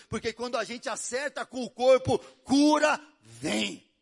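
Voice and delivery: rising from loud to a full preaching shout; building to a shout. Real, not acted. Preaching climax.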